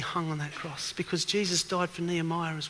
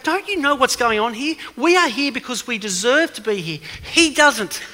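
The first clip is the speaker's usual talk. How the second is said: higher, louder rebuking shout; retold yell back; 5 semitones higher, 10 dB louder than usual. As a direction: shout back, putting him in his place. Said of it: "the other criminal yells back".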